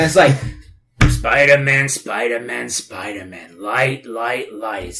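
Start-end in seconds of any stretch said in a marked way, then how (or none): 1.9-4.8 lower, softer evil monster voice. Retold or imitated. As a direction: drop into a low evil monster voice. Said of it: "it's his evil monster voice".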